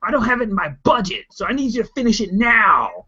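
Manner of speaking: high, loud pleading boss voice; a boss squealing about his project, up high and loud; whiny boss. Acted. Boss whining at employee about overtime, high and loud.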